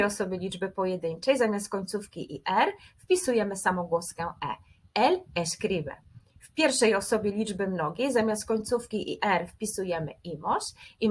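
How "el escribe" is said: slow, careful model of the Spanish form. Shown as a demonstration. Teacher models the Spanish form for students, slow and careful. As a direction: spell out Tu escribes slowly for the class. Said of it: "teacher models verb form".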